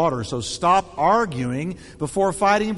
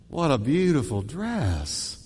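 slow and gentle; mean it kindly; sincere compliment; 4 semitones lower, 4 dB quieter, slower than usual. Shown as a demonstration. Pastor demonstrates a sincere compliment to a wife. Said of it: "The tone you".

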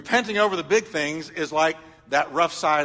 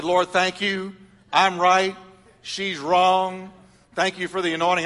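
smug prayer; 4 semitones higher, 4 dB louder than usual. Retold or imitated. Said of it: "My attitude was".

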